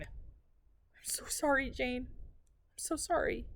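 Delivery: slow, breathy whispered apology; barely able to speak; whispered, slow and broken; tearful whisper. Acted. Grieving mother whispers apology.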